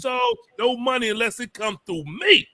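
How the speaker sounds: high-pitched mock boasting. Host imitating a rapper laying down rules, high mock bluster. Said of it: "T I going around Atlanta talking about".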